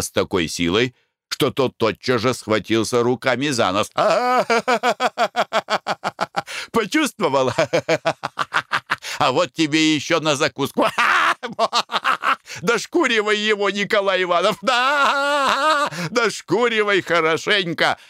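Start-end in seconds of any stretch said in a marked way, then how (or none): 4.0-6.7 gleeful cackle. Acted. Laughing at hit Englishman. 6.7-18.0 high, laughing, gloating yells; gleeful shouting. Acted. Konurin gloats and cheers Nikolai on, high laughing shouts. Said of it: "продолжал кричать Конурин".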